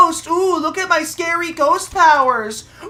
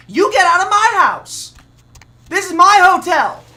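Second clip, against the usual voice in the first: louder, hammering the word my; loud claim; 4 dB louder than usual. Real, not acted. Gamer shouting at the ghost that the hotel is his. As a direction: stake your claim, hitting my.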